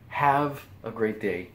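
slow, drawn-out goodbye; warm farewell. Real, not acted. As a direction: stretch it out kindly to viewers.

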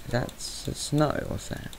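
whispered, curious question; a sudden whisper to yourself. Real, not acted. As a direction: hush it as if not to be heard. Suddenly unvoiced question while exploring.

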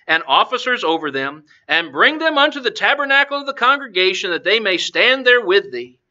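measured Bible reading aloud; scripture reading. Acted. Preacher reads God's answer to the congregation, scripture reading. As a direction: read the verses out phrase by phrase.

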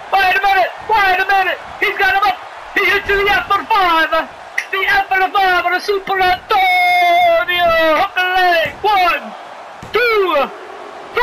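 urgent big-move call into a count; excited play-by-play. Acted. Commentator calls a finisher and pinfall, excited. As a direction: build the drama of the finisher.

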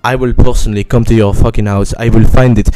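put-on screaming French-accented threat; furious shout. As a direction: scream it at the top of your lungs.

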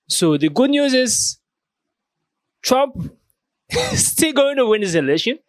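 can't hold back a laugh. Real, not acted. Laughs while announcing good news.

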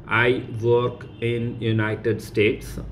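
I work in United States said slowly; slow translation. Shown as a demonstration. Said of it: "teacher translates slowly".

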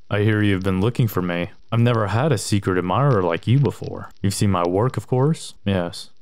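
low, soft sinister letter-reading; menacing killer, calm and quiet; creepy killer voice. Acted.

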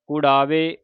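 ਕੁੜਾਵੇ, every vowel carefully voiced; careful pronunciation. Shown as a demonstration. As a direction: say ਕੁੜਾਵੇ with a clearly sounded final vowel. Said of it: "ਦਲੈਂਕੜਾਂ ਦੇ ਨਾਲ".

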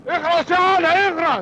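sharp high order to shut up; angry hush. Acted. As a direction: uncle silencing his nephew in front of the boss. Uncle silences nephew. (خال يسكّت ابن اخته بحدة)

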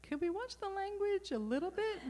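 put-on high, squeaky pleading kid voice, laughing; younger self.

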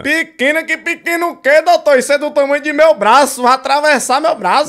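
hammed-up needle fear; mock fearful patient. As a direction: plead with the doctor over the needle.

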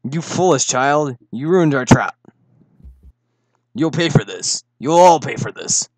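quiet, casual villain threat; soft-spoken villain. Acted. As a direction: threaten calmly, without raising your voice. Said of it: "You sound so soft-spoken".

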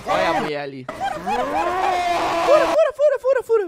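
high, loud, laughing woman's voice; man doing a woman's voice. Acted. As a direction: squeal it out as a woman. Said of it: "tá difícil fazer voz de mulher".

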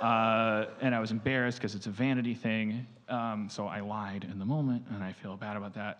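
low, soft, sheepish admission; embarrassed confession. Retold or imitated. Imitating a therapist admitting to a patient, embarrassed confession. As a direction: confess it quietly after a sigh. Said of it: "really embarrassed about this".

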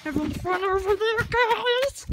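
high shouted call while running. Real, not acted. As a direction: yell it across the yard. Running barefoot, calling out.

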